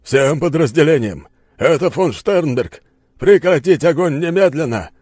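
loud, high barked command; barking order. Acted. General barks orders into the transmitter, loud. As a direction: bark it into the radio. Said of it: "рявкнул он в передатчик".

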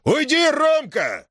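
very high, slow calling shout; shout from afar. Acted. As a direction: call out to the son from across the square. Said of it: "закричал от сторожки". (громко окликнуть сына издалека)

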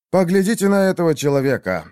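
loud, high thundering proclamation; booming thunder and wind. A narrator's reading. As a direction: boom it across the hall. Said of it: "прогремел голос Шаха".

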